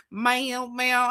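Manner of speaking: high-pitched mock "ma'am"; mocking Southern politeness. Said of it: "they be like".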